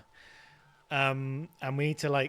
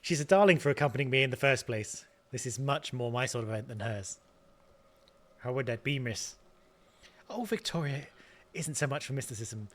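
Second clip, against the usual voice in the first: attempted Scottish accent. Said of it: "I can't do Scottish".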